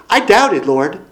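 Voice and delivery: high, pleading cry of a doomed man; desperate psalmist. Acted. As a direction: cry out as one who feels cut off. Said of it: "What he's saying here".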